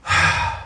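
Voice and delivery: long unvoiced sigh; deep sigh. A narrator's reading. Jesus sighs at the Pharisees, a deep sigh. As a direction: let out a heavy breath before speaking. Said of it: "He sighed deeply".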